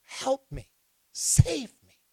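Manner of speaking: high, pleading cry for help; desperate high plea, save me; drowning man's plea. Acted. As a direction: call out like you're going under. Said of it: "What he does is".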